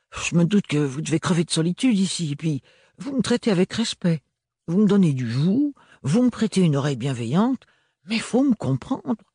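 put-on high young maid with a thick provincial French accent. A narrator's reading. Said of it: "L'accent très prononcé de l'adolescente".

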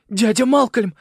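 calling out in delight; joyful cry. A narrator's reading. Simon crying out to his uncle, high and loud.

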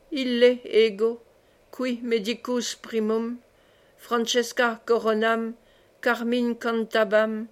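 slow, measured recital of Latin verse; doctor reads his hexameter to himself; reciting verse. A narrator's reading. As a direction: savour each Latin word like a poet.

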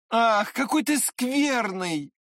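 high, slow cry of reproach; boy crying out at his friend; reproachful cry. A narrator's reading. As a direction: scold him, drawn out and high. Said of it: "крикнул мальчик".

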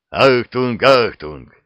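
loud growled alarm call; hammed-up loud growling alert. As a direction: bark the warning like an alarm. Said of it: "рыкнула".

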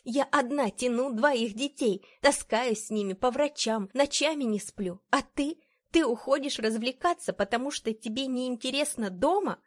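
high, loud torrent of reproach; unrestrained. A narrator's reading. Exhausted wife accusing husband of escaping, heated. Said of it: "но я не сдерживалась".

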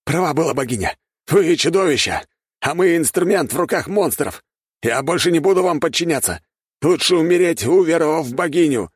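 high loud rebellious declaration; a soldier renouncing his master; defiant outburst. A narrator's reading. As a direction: break free and shout defiance. Soldier rebels against his lord.

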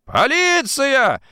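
high, drawn-out cry for police; sudden yell. A narrator's reading. Drunken timekeeper suddenly calling the police, yelling. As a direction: bawl it out, stretching the vowels. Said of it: "заорал он вдруг".

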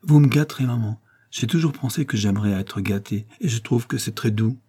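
lightly teasing, a touch of mischief; playful. Acted. Caroline teasing her mother about being spoiled, lightly playful. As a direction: tease her gently, half joking. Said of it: "Caroline lui disait d'un ton espiègle".

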